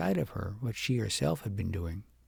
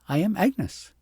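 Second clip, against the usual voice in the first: mocking echo; 7 semitones higher, 5 dB louder than usual. A narrator's reading. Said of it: "And the little girl said".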